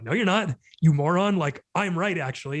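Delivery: mock snapping back, loud on moron; mock angry retort. Acting a dismissive partner in a fight.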